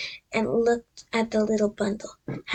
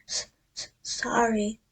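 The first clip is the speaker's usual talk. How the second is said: sobbing. Acted. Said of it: "sobbed Hagrid".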